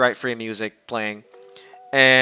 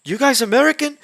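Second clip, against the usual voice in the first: much higher, bright questioning lilt; curious DJ; 11 semitones higher than usual. Retold or imitated. DJ asking the group if they're American, high-pitched. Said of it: "He's like".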